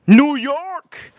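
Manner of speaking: loud, high shout-out; excited shout. Real, not acted. Streamer hyping viewers, shouting out New York.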